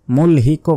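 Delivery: quick "মুলহিকও", plain k plus vowel; ভুল উচ্চারণ. Shown as a demonstration. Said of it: "বলা যাবে না". ("মুলহিকও" শেষে পুরো কো বলে)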